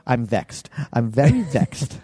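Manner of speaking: mock British villain, drawn out on the repeat; hammed-up British delivery; British accent. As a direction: imitate an overacted British movie accent. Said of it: "puts on the British accent".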